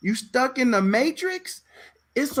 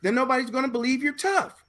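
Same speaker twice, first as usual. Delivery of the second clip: higher, insistent teacher voice; white acting teacher; 4 semitones higher than usual. Teacher insisting regular talk won't sell, higher voice. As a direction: push the actors to act tough. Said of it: "teacher voice again".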